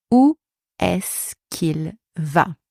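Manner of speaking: slow demo. Shown as a demonstration. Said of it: "I'm gonna give you example first".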